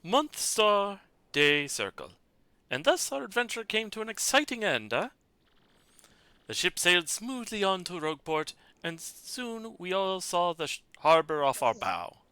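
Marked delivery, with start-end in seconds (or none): 2.7-12.2 lightly French-tinged adventurer narrating; a hint of a grand explorer wrapping up his tale; a touch of French swagger closing the journal; lightly voiced Flavio.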